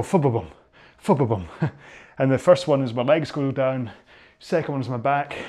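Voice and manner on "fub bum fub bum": rhythm sounds. Shown as a demonstration. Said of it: "So I go".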